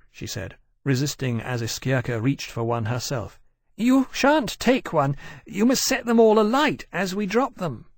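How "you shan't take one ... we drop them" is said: put-on high fussy young dragon; high-pitched dragon voice. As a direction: lift it high, quick and fretful. Persitia's dragon voice.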